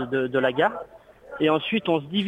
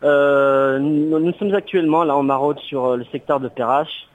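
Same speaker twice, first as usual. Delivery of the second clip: radio show caller; 4 dB louder than usual. Real, not acted. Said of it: "On a un auditeur à la, à l'antenne".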